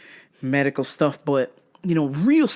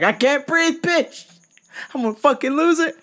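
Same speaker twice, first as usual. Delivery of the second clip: much higher, frantic and fast; hamming up losing it; mock panic; 9 semitones higher than usual. Retold panic.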